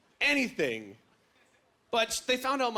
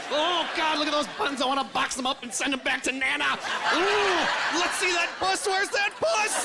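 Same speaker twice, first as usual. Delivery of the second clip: flamboyant gushing friend; 6 semitones higher than usual. Retold or imitated. Gay friend gushing at the girlfriend, high campy shrieks. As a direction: shriek compliments at her body.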